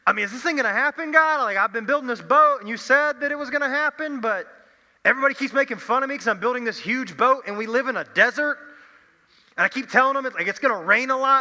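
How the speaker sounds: high, loud, rushed pleading to God; like a man at his wits' end with his neighbours; exasperated pleading. Retold or imitated. Noah complains to God that everyone mocks him, high and loud.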